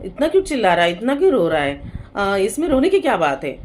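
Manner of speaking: put-on loud scolding of a crying child; scolding parent. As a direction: snap at the child to stop crying. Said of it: "तो parent क्या बोलते हैं". (डांटते हुए माता-पिता की ऊँची, गुस्से भरी आवाज़)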